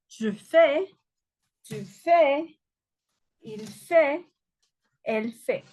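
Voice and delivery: je fais, tu fais, il fait, elle fait, avec fais et fait prononcés pareil; détacher chaque forme, consonne finale muette; conjugaison modèle. Shown as a demonstration. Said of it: "conjugaison modèle". (conjugaison articulée pour la classe)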